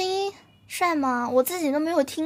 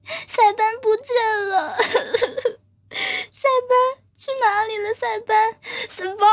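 mock roaring wail; 6 semitones higher than usual. Streamer roaring for the missing Saiban on request, hammed-up wail. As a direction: roar the name like a wounded beast, half laughing. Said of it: "很咆哮的感觉".

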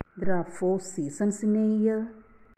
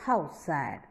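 sad exclamation; 4 semitones lower, 5 dB quieter than usual. Shown as a demonstration. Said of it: "shows strong or sudden feelings".

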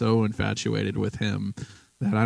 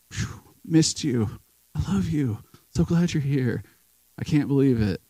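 voicing the girlfriend's teary joy at the arrival gate; tearful reunion; 5 semitones higher than usual. Girlfriend greeting her soldier at the airport, high and teary.

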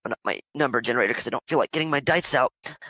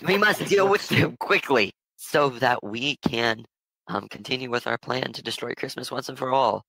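emphatic mock-German scheming; bad German accent; 3 semitones higher than usual. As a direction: push the bad German accent harder, lifting the pitch. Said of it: "says in a bad German accent".

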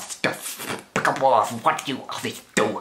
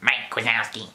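Roz impression. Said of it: "It's supposed to be Roz".

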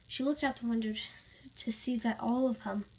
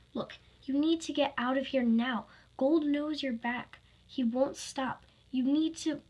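mildly raised, pressing voice; a touch of louder urgency; urgent warning; 4 semitones higher, 4 dB louder than usual. Acted. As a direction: press them to get out. Friend urgently warns her to leave.

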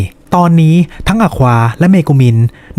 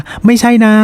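Darkness protesting; 8 semitones higher than usual. Acted. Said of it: "ดาร์กเนสก็เลยบอกว่า".

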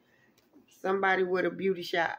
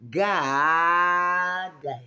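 loud exclamation; 6 dB louder than usual. Real, not acted. Reacting to the reading.

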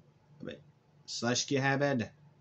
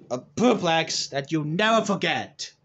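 promo threat; 3 semitones higher, 6 dB louder than usual. Acted.

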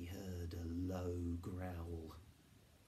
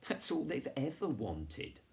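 high, louder relieved exclamation; amused relief; 8 semitones higher, 5 dB louder than usual. A narrator's reading. Boy realizing with friends the dogs are harmless, amused relief. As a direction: say it high, falling away in amusement. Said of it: "laughed Jonathan".

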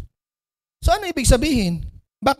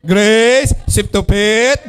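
whiny crying sales pitch; 2 semitones lower, much slower than usual. Retold or imitated. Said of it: "Hindi ganon".

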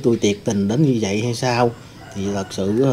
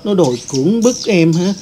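higher, louder tearful-sounding accusation; aunt falsely accusing the nephew to her husband, higher and louder; 5 semitones higher, 3 dB louder than usual. Retold or imitated. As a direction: play the victim to the husband, rising to a near shriek. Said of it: "Dì nói á".

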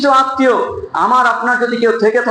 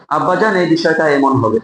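lower, gentle voice to a father; soft and respectful; 5 semitones lower than usual. Shown as a demonstration. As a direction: correct him tenderly, voice kept low. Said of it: "কণ্ঠস্বর নিচু করে আস্তে আস্তে বলতে হবে". (বাবাকে নিচু, নরম, সম্মানের সুরে বোঝানো)

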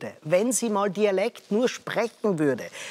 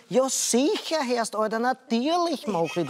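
a hint of a casual Viennese dialect, a bit higher; 4 semitones higher than usual. Commentator imagining the politician's Viennese dialect answer. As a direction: toss it off in easy Viennese dialect. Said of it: "sie hätte nur sagen müssen".

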